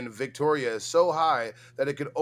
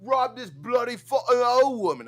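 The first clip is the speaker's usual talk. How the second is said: much higher, louder Aussie caricature; mock Australian accent; 11 semitones higher, 7 dB louder than usual. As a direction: ham up a rowdy Australian thug. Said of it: "how the fuck you guys talk".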